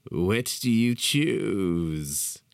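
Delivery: eager. Acted. Unhinged host, eager question.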